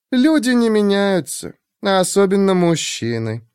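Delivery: high, lightly teasing woman. Acted. Shurk voiced.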